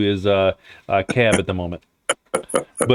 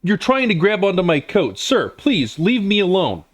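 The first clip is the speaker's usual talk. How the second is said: raised, prim protest from a harried man; flustered gentleman; 7 semitones higher than usual. Acted. GM voicing a man pushing off a coat-grabber, flustered. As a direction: fend off the grabbing stranger, politely fussed. GM voices NPC pushed at cab.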